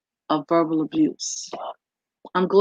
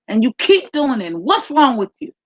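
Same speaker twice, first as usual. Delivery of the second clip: higher, fast, exasperated parent's reproach; exasperated scolding; 5 semitones higher than usual. Retold or imitated. Frustrated parent scolding Johnny: exasperated, raised reproach. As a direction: let the frustration spill out at the kid. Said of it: "speak to the child in an angry way".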